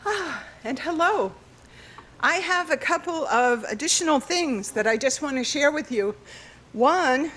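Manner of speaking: winded, catching breath between words. Real, not acted. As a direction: speak while still out of breath. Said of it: "sorry, I'm out of breath".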